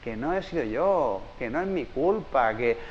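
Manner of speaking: put-on soft, slow, a touch of childlike relief; lightly voiced little girl calming down; relieved child. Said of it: "la niña empieza a aliviarse". (niña aliviada tras culpar a la mesa, suave y lenta)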